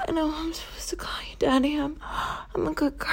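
quick, soft apologetic whisper; hushed rushed apology. Acted. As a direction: breathe it out fast and contrite. Apologetic submissive roleplay.

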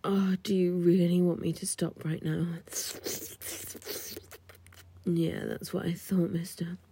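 playful, knowing whisper; teasing whisper. Acted. Stewardess teasing the client, knowing whisper.

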